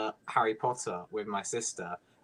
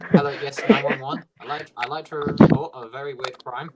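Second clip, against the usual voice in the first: loud, overacted phone call to emergency services; mock emergency caller; 8 dB louder than usual. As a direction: play up a silly emergency call. Prank calling emergency services.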